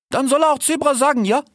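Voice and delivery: high, indignant slangy cheetah; cheetah Ilias. A narrator's reading. Cheetah complains about the fox's wording, high and slangy. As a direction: complain with the voice pushed way up. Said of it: "rief Ilias".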